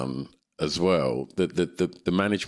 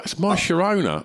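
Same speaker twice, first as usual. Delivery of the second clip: deadpan wife; 13 semitones higher than usual. Retold or imitated. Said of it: "she was like".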